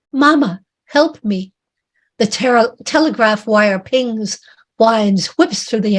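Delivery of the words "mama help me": raised, higher cry for mother; calling out for help. Acted. Drowning man calling to his mother, raised cry. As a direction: call out for your mama. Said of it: "A man calls out".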